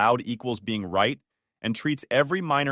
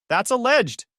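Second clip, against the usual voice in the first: calling out; 11 semitones higher, 5 dB louder, slower than usual. Acted. Nadia calls from upstairs.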